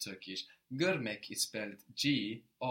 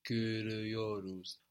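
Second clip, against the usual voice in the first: slow, syllable by syllable; slower than usual. Shown as a demonstration. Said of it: "build it very slowly".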